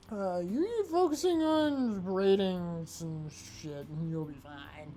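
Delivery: put-on slow slurred drunk advice; lazy drunk drawl. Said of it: "the drunk voice was required".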